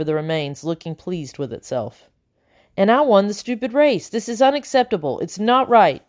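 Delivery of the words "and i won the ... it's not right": panting. Acted. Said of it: "Tumble panted".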